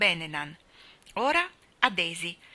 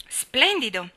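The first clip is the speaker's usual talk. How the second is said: higher, louder burst of praise; delighted exclaim; 5 semitones higher, 5 dB louder, slower than usual. Acted. Nat praising Daisy's cat essay, exclaiming with delight. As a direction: cheer her on with real delight. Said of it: "esclamò Nat".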